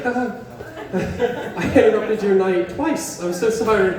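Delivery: awkward apologetic laugh. Retold or imitated. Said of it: "look at them and be like".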